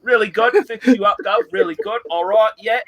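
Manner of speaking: hammed-up pub-guide pitch, mostly his own voice; playing Red Beard selling Lee on the local pub, lightly put on; Red Beard impression. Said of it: "I was doing a Red Beard impression there".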